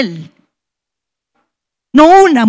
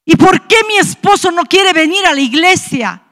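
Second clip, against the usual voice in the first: retold tearful plea; 5 semitones higher than usual. Wife crying to God over her unconverted husband, retold tearful plea. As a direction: plead with God, voice raised in pitch, as if crying. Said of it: "llorando le decía".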